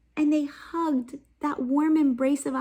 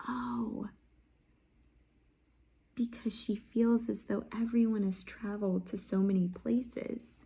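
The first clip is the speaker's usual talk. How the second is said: soft voice; 7 dB quieter than usual. Real, not acted. Teacher answers softly.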